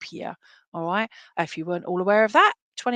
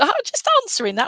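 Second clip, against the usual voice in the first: laughing; 11 semitones higher, 7 dB louder, faster than usual. Real, not acted. Medium laughs at spirit's joke.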